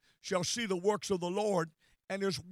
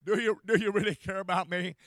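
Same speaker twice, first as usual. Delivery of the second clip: anguished prayer. Retold or imitated. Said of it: "cried within your soul and said".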